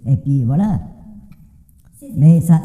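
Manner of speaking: ordinary delivery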